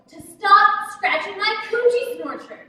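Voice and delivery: loud, emphatic retelling of a scary warning; imitated threatening voice. Girl retells her mama's warning, loud imitated threat. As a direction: imitate a scolding mother, punching the words. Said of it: "in a loud, scary, life-threatening voice".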